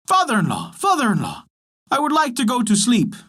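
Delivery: a frog calling for bed. A narrator's reading. Frog asks the father for sleep, lightly voiced call.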